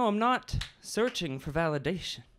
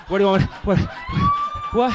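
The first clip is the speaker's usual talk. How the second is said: mock surprise; 8 dB louder, much faster than usual. Poet breaks off, hearing objection.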